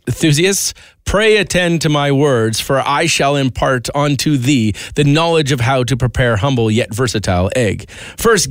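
slow, grand Shakespearean reading; hammy stage actor. Acted. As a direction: declaim it like an old stage actor. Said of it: "in Shakespearean".

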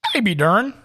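a crack in the voice. Real, not acted. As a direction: voice breaking on the call-out. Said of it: "Your voice kinda cracked there".

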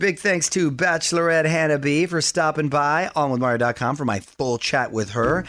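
upbeat, polished DJ sign-off; radio sign-off. Acted. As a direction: wrap up the show for listeners. Radio host signs off.

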